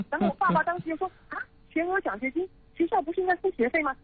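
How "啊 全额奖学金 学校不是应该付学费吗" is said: high-pitched mock indignation of a skeptical dad; angry father. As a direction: imitate a dad's scornful objection, pitched up. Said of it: "爸爸妈妈非常非常生气".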